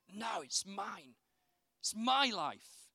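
slow, clinging, ending in a whisper; possessive refusal. Retold or imitated. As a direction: hold on tight, then whisper it. Possessive self refusing God.

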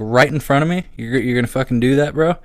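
mock-furious at the guy eyeing his girlfriend; indignant outrage. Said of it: "defcon five kind of blood boiling".

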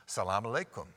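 put-on Salam alaikum in an Arabic accent; Arabic greeting. Greeting a Muslim woman at the airport, in Arabic. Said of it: "greet her in the Arabic way".

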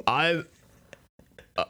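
high, halting voice with a speech impediment; Bruce Wayne. Acted. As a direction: introduce yourself in a silly high voice, haltingly. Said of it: "Bruce Wayne".

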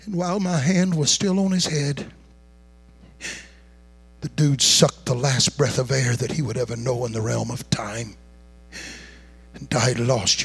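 soft, low storytelling; solemn hush. Real, not acted. Preacher telling of the man's death at his hand, hushed. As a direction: drop to a grave, near-whispered hush.

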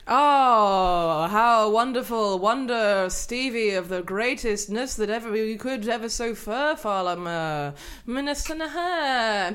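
slow, hammy courtly olde speech; renaissance fair olde speech. Pretend. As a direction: ham it up like a medieval herald. Continues courtly improv.

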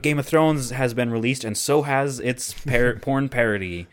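announcer voice. Retold or imitated. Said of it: "everyone was making a big deal about it".

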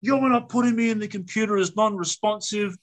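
retold indignant tirade; mock yelling mum. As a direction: rant it like an outraged mother. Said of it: "starts yelling".

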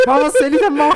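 high, laughing protest. Real, not acted. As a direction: laugh through the question. Teased, laughs back.

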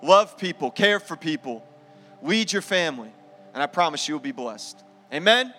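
fervent pulpit declaration, rising and falling; preaching declaration. Acted. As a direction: proclaim it over the men with conviction. Pastor declaring blessing over men.

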